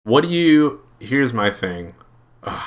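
ordinary talk

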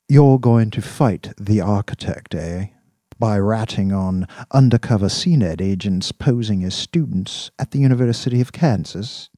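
measured, lightly mocking interrogator; sceptical boss. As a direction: spell out the plan as if it's absurd. Voices Dax, sceptical of Virgil's plan.

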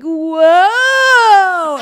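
high, loud yelp of alarm; a husband yelping as the car skids; mock startled whoa. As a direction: yelp like a man sliding off the road. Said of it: "you hear him go".

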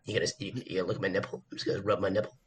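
low, soft mock seductive voice; mock sexy voice. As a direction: play it breathy and seductive, jokingly. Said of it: "Yes, that sounded sexy".

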